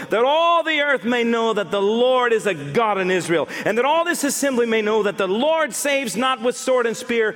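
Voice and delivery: rising, fierce proclamation of faith; defiant battle cry. Acted. David shouting down the giant in the Lord's name. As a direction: build from firm to ringing defiance. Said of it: "all-time great trash-talking moments".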